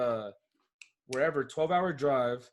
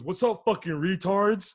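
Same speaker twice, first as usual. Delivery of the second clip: mock rowdy greeting; 5 semitones higher, 3 dB louder, slower than usual. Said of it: "He goes".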